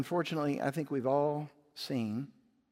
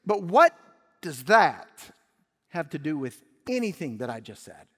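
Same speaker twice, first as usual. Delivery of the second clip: exasperated son; 8 dB louder than usual. Acted. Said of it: "the son could say".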